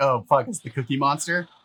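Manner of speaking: plain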